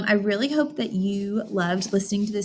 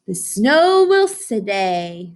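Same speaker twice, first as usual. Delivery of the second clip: wise owl; 4 dB louder, much slower than usual. Acted. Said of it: "said Owl".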